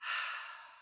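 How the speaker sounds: breathy, voiceless exhale through the mouth; demonstrated sigh. Shown as a demonstration. Teacher breathing along with the meditating students, audible sigh. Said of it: "Just keep breathing and sighing".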